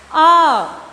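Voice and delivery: अ called out loud and long; teacher calling out the letter अ. Shown as a demonstration. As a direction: announce the letter अ to the class. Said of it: "क्या हो गया?".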